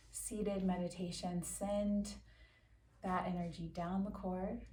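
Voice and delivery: calm, measured meditation voice with long pauses; guided meditation. Acted. Yoga teacher settles listeners into a quick seated meditation, calm guided-meditation delivery. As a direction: guide them unhurriedly, leaving space after each instruction.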